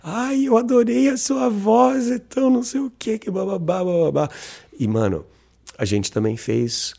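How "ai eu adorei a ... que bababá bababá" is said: put-on much higher, gushing girl's voice; imitating the girl. The match replying to his voice note, high and gushing. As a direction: play the smitten girl answering back. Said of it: "a mensagem de voz que volta é".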